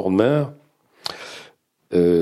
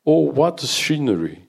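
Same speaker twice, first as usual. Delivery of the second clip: slow, higher, piercing cry of delight; strident English teacher; 5 semitones higher than usual. Acted. French teacher gushing to colleagues over the park, strident. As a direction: gush over the view in a shrill voice.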